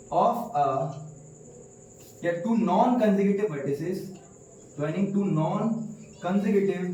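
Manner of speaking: very slow, word by word for notes; slow dictation. Shown as a demonstration. Teacher dictating the definition to the class, very slowly. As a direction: dictate it so pupils can write. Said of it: "teacher dictating the definition slowly".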